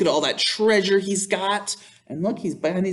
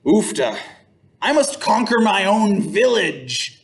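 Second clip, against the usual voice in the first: declaring; 4 semitones higher than usual. Acted. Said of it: "he declared".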